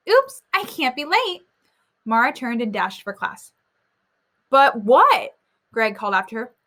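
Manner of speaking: reading a chapter book aloud to the class; voicing the kids lightly as you read; story reading. A narrator's reading. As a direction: read it like a teacher sharing a story. Teacher reads story aloud.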